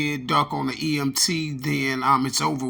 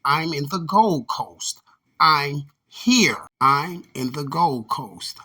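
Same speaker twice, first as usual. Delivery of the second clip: slow, drawn-out mock of a man on a livestream; mocking imitation; 3 dB louder, much slower than usual. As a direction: stretch it out slowly, with a whispered middle bit. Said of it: "that's why he said this".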